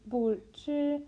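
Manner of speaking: struggling tongue twister attempt. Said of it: "I will never".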